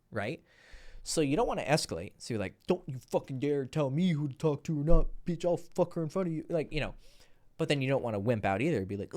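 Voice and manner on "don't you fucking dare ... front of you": aggressive sneer. Pretend. Hypothetical aggressive escalation.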